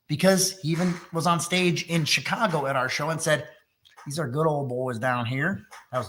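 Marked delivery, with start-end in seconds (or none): 4.0-5.7 bad Texas accent. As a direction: toss off a lightly faked Texas accent. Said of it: "that's a bad Texas accent".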